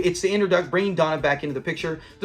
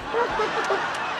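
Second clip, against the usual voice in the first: high cackling laugh; cackling bird imitation; 5 dB quieter than usual. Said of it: "acting like he's a cackling bird".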